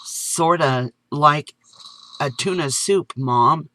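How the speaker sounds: put-on child explaining earnestly; young boy. Boy tells his mom about supper, slow childish voice.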